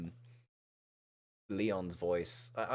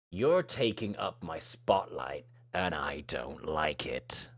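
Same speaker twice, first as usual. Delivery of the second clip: menacing bully. Acted. Plays bully Royce threatening.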